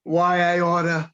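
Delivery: slow, loud New York tough-guy threat; New York accent. Pretend. Guest performing the line on request, in a New York accent. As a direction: lean into a thick New York accent, drawn out. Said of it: "give me a".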